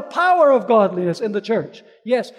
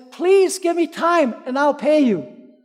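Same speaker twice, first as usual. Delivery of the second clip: pleading cry; 4 semitones higher, 4 dB louder than usual. Retold or imitated. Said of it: "he cries out and he says".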